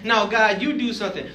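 loud, high mock protest; hammed-up, high-pitched retort; acted arguing back.

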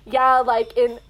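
slow, hammy fake Korean accent. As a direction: overdo a Korean accent on a band's name. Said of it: "try to switch to a Korean accent".

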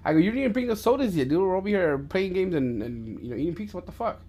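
high-pitched mock exasperation, not shouted; retold scolding. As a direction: imitate telling off a younger brother. Retold telling off his brother.

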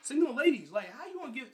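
high, loud call-out to single ladies; loud, high rant opener; loud outburst. Real, not acted. Sudden outburst.

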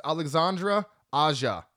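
Alexandre Aja said carefully; correct name pronunciation. Shown as a demonstration. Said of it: "I know how to pronounce his name".

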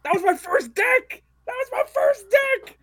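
high excited yelling. Real, not acted. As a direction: shout it out, thrilled. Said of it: "I think Andrew's excited".

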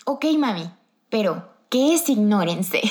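lightly voiced puzzled little boy; a hint of a sweet small child asking mom; little brother. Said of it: "mi pobre hermano ahí todo chiquillo". (ligera vocecita de hermanito confundido)

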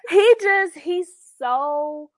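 high, loud mock cheer; Klumps. Quoting the comedy to mock a performative man, hammed-up Klumps cheer. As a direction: call it out like an over-the-top comedy character. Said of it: "It was giving clumps".

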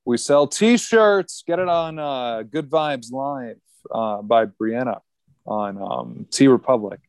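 slow, drawn-out ad read; selling the podcast shirts to listeners as a mock ad read. Slow mock ad read for the shirts. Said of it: "I'm good at ad reads".

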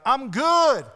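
Jesus pretending to brush Peter off from the shore; dismissive brush-off. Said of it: "He didn't stand from the shore and be like".

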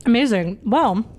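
talking while chewing a donut; words round a bite of donut; mouth full. Real, not acted. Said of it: "sorry, I'm eating an apple cider donut".

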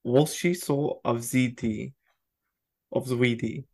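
Walshy so avziti said slowly, sounded out; slow careful repeat. Shown as a demonstration. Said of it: "Say it again".

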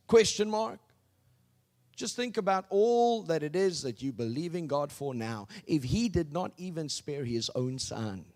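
normal talking voice

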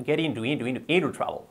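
"into" repeated quickly with a softened, reduced t; "Get into trouble" run together, "into" repeated as a drill; quick connected speech. Shown as a demonstration. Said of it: "Así dicho rápido".

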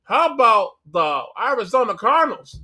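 hammed-up Southern sportscaster hyping teams; mock Southern accent commentator. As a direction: play a fake Southern TV pundit. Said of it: "screaming in a Southern accent".

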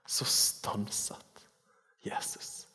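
whispered, very slow; slow hushed whisper. Acted. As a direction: let every word hang in wonder. Repeats verse hushed, slow.

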